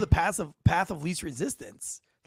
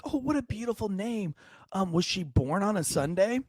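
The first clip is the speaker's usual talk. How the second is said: put-on super old lady; 5 semitones higher than usual. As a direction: imitate a sweetly curious old lady. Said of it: "this super old lady".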